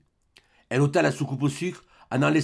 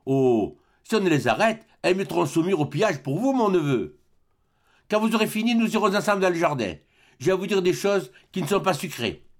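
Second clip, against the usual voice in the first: sardonic uncle; 5 semitones higher than usual. Acted. Grandet mocks, then threatens.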